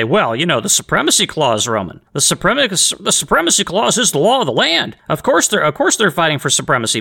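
high-pitched mock lawyer objection; nitpicking lawyer. Imagined lawyer correcting the host, mock pedantic. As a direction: raise the pitch and pick it apart like a pedant. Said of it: "some lawyer might try to pick that apart and say".

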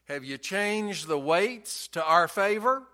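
understated, half-hearted call down the stairs; mock yell downstairs. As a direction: imitate a father calling down to his son. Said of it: "he would yell down to the son".

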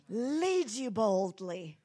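bold, drawn-out singer's delivery; slow, stretched words, projected boldly; a worship leader. Shown as a demonstration. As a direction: burst out like an admired worship leader. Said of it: "I wanted to have a voice like, like Angie".

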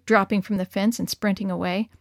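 ordinary delivery, nothing marked

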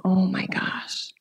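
slow, near-whispered awe; hushed realization. Retold or imitated. Woman reliving the moment she realized, hushed. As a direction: breathe it out slowly as it dawns on you.

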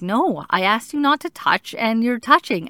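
mildly stern mother voice; retold stern scolding. Mom retells scolding her three-year-old over sprinkles, mildly stern. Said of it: "spoke to her sternly".

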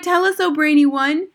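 high, pleading witch chorus; eager cry. A narrator's reading. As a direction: beg the leader excitedly. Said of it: "they cried".

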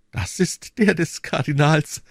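high, slow woman's character voice; Madame Bonacieux. A narrator's reading. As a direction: answer slowly in a lifted female voice. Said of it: "entgegnete Madame Bonacieux". (hohe, langsame Frauenstimme)

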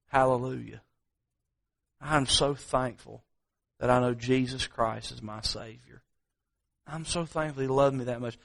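soft, hushed testimony of thanks; heartfelt gratitude. Real, not acted. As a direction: drop the volume and speak sincerely. Preacher gives heartfelt personal thanks.

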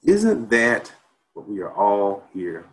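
rising, ringing oratory that falls hushed at line ends; preacherly spoken-word performance of a protest poem. Acted. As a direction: build each question, then drop to a near hush.

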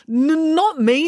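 high, stretched stuttering protest; urgent stammer. A narrator's reading. Joe corrects Finn's grip, urgent stammer.

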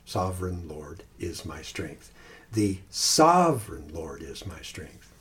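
slow, each pass leaning on "sovereign", then the next word; walk the stress through the phrase; stress moving word by word. Shown as a demonstration. Pastor stepping emphasis through each word in turn. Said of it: "emphasize each word in sequence".

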